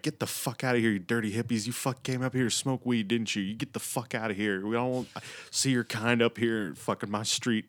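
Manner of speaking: mock angry tirade, pitched a little up; heated retold scolding without full shouting; pissed-off rant. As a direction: imitate a drunk homeowner chasing people off. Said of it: "he's all pissed off".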